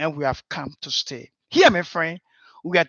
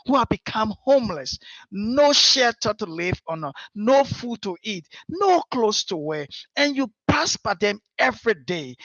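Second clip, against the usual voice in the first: passionate plea; 2 semitones higher than usual. Acted. Impassioned plea about the needy.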